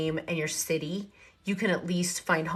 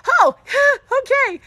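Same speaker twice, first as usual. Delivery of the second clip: high laughing "oh, okay"; laughing surprise; 10 dB louder than usual. Real, not acted. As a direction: laugh it off, caught off guard. Salesman praises her answer.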